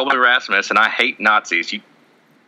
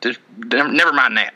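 Colby Rasmus; 2 semitones higher than usual. Acted. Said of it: "my voice is changing".

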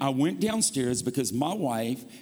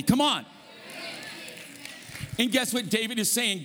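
raised, forceful pulpit delivery; emphatic preaching; 5 semitones higher than usual. Real, not acted. Preacher urging the church to say amen, emphatic preaching. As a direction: drive each phrase home to the congregation.

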